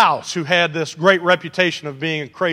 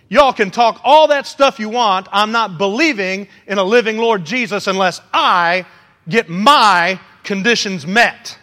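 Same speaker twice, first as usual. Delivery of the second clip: defiant Thomas; 3 dB louder than usual. Retold or imitated. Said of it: "This is an ultimatum".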